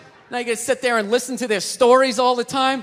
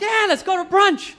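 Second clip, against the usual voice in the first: fake enthusiasm; 6 semitones higher than usual.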